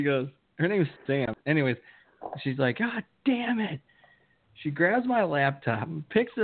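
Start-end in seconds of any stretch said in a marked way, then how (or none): 2.8-3.8 high, slow mock curse; imitating the ex, pitched up; mock angry girlfriend. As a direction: draw it out high like the ex. Retelling ex's reaction.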